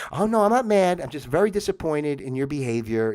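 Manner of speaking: a guilt-trip sigh of a disappointed parent; guilt-tripping mother. Retold or imitated. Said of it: "guilt trip that we would get".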